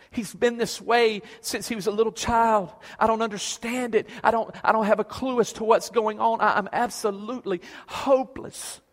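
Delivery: high, loud, rushed pleading; desperate father pleading. Acted. A lightly voiced father begging the teacher, high and loud. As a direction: pour out a father's despair. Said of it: "He says".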